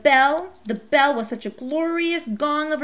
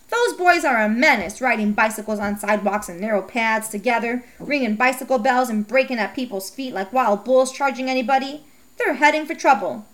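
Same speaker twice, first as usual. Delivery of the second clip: scolding mother. Acted. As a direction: play a sharp, fed-up mother. Narrator voices Mom scolding.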